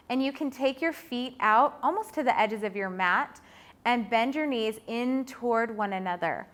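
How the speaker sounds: usual speaking voice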